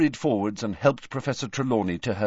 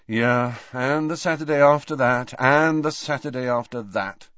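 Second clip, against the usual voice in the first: sighing; 4 semitones higher, 4 dB louder than usual. Acted. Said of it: "sighed Harry".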